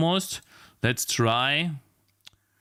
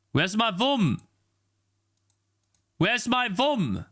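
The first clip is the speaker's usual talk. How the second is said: much higher, slow exasperated whine; whiny high voice; 9 semitones higher, slower than usual. Real, not acted. Streamer whining at the stuck upload, high pitched.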